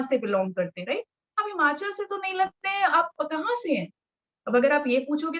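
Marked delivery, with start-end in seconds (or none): 1.4-3.9 friendly asking. Shown as a demonstration. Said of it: "अगर आप इतनी प्यार से पूछोगे".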